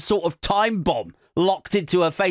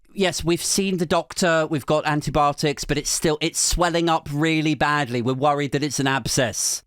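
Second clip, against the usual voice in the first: clearer, more projected repeat; speaking up; 4 semitones lower than usual. Retold or imitated. Boyfriend told to speak into mic, speaking up. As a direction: project the answer clearly into a microphone. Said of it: "can you speak into the mic".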